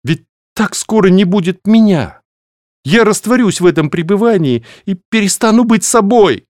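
high, loud, desperate cry; breaking into a shout. A narrator's reading. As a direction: let her words tip over into a shout. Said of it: "Последние слова сорвались на крик".

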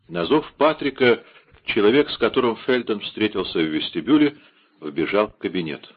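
usual speaking voice

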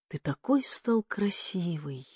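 soft, affectionate murmur; tender. A narrator's reading. Nephew kissing his frail uncle's cheek, tender. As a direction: say it softly, with affection.

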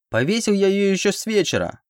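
high-pitched squeaky yelp; thin little squeal of a voice. A narrator's reading. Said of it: "Снова раздалось писклявое".

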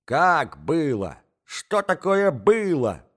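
high, slow startled cry; baffled shout. A narrator's reading. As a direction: shout in confusion. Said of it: "кричала Марья Александровна".

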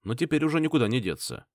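ordinary delivery, nothing marked

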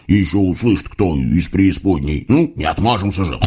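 low, hushed hog-devil warning; angry hiss. A narrator's reading. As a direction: hiss a worried warning to your partner. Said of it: "зашипел хряк".

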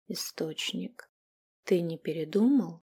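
meek, quiet, slow plea; humble. A narrator's reading. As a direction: ask humbly, almost pleading. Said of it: "смиренно спросила она". (смиренно, тихо)

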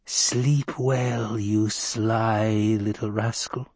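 slow wheezy crone goodnight; a sly old witch, drawn out; breathless old person. Acted. Crone farewell.

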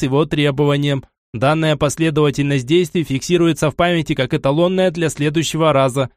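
purely mechanical reasoning; mechanical robot voice. Acted. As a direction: reason it out like a machine. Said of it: "чисто механически рассудил".

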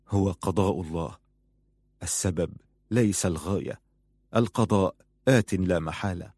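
quiet, grave acceptance of fate; solemn consolation. A narrator's reading. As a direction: offer resigned comfort to the bereaved. Old sheikh consoles with God's decree.

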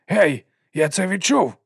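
high, loud, drawn-out cry; exclaiming servant. A narrator's reading. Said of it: "вигукнув він".

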